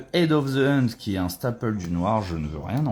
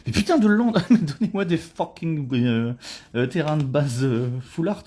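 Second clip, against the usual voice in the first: higher, louder mock demand; exasperated plea; 6 semitones higher, 3 dB louder than usual. Real, not acted. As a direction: beg the pack for better lands. Begs for full-art lands. (supplique exaspérée)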